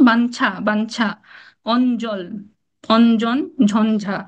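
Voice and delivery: বাঞ্ছা, অঞ্জল, অঞ্জন, ঝঞ্ঝা each with a clear n for ঞ; spaced-out examples, ঞ as n in বাঞ্ছা, অঞ্জন, ঝঞ্ঝা; n sound in conjuncts. Shown as a demonstration. Teacher listing examples, n sound in বাঞ্ছা and অঞ্জন. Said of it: "সেটা উচ্চারণ নয়ের মতো হয়".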